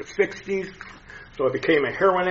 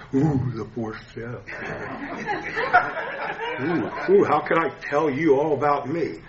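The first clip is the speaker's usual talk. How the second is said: laughing dread. Real, not acted. Dreading the fourth step.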